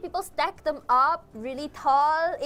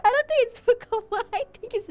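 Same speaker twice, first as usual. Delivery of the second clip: excited protest; 9 semitones higher, 8 dB louder than usual. Real, not acted. Laughing protest.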